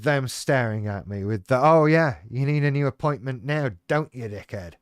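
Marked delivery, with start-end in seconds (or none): 1.6-4.7 mocking staff. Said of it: "face on".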